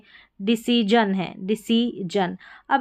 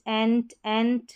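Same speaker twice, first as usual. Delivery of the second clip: repeated drill; 3 dB quieter, slower than usual. Shown as a demonstration. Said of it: "सभी में है एंट".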